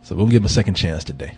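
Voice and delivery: ordinary delivery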